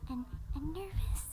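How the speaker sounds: slow, soft, nervous voice; timid and fading away to near nothing; Fluttershy. Acted. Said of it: "She's slower and soft and, and nervous".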